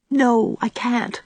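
desperate. A narrator's reading. Anne to Gilbert, refusing any hope, desperate. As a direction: stretch out a despairing no. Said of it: "exclaimed Anne desperately".

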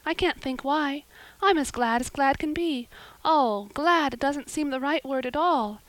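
put-on high, puzzled, overjoyed little girl; bewildered. A narrator's reading. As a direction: gush in happy confusion, pitched high. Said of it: "in a tone of bewilderment".

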